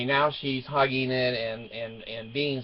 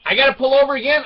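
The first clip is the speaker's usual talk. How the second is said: put-on high, loud teen protest; imitated incredulous daughter; 12 semitones higher, 9 dB louder, faster than usual. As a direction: mimic a daughter balking in disbelief.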